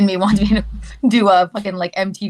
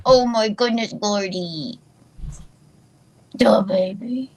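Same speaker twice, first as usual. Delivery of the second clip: whisper; slower than usual. Real, not acted. Cooing to the dog in a whisper. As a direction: breathe it to the puppy.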